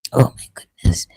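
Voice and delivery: disbelieving whisper under the breath; breathy oh my goodness aside. Real, not acted. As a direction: whisper it to yourself, dismayed.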